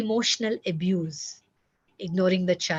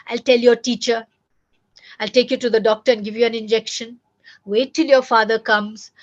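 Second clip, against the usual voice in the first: louder scolding threat, mildly hammed; mock parental threat; 7 dB louder than usual. Parent scaring a misbehaving child, mock stern threat. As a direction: play the nagging parent who threatens. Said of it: "horrible threat that a lot of parents".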